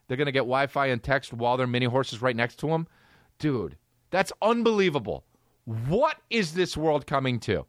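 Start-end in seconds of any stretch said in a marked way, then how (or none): 3.4-7.6 put-on old guy. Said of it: "said the old guy".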